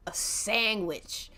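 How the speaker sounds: sandwich drawn out slowly and pressed hard; stress on sandwich. Acted. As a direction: lean heavily on sandwich, slowly. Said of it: "he really puts emphasis on, on sandwich".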